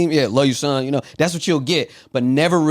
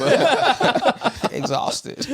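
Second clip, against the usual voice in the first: laughing; 11 semitones higher, much slower than usual. Real, not acted. Joking about being tired.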